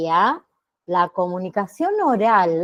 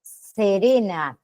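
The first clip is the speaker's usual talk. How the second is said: slow, calm and even; serene voice; much slower than usual. Shown as a demonstration. Teacher showing the class a slow serene voice. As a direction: say it serenely, slowly. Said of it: "Si yo le hablo con una voz".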